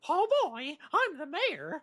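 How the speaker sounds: mayor voice. Acted. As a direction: play it like a pompous mayor. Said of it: "and he will talk like this".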